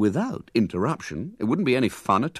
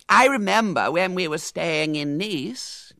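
put-on pompous boy; 9 semitones higher, slower than usual. Claude starting a boast.

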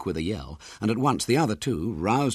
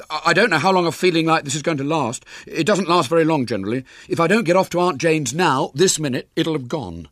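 a lightly voiced schoolboy in a hurry; urgent, pleading boy; high, loud boyish plea; eager boy; 8 semitones higher, 6 dB louder than usual. William pleads to leave now.

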